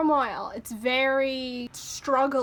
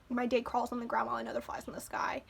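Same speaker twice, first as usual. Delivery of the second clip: soft, fast whispered lyric reading; 7 dB quieter, faster than usual. Acted. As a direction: whisper the line quickly under the breath.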